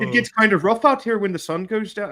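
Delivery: put-on high-pitched Canadian accent slipping into Irish; botched Canadian-Irish menace; Canadian accent gone Irish. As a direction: fake a tough Canadian and drift into Irish. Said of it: "I don't know why they're Irish now".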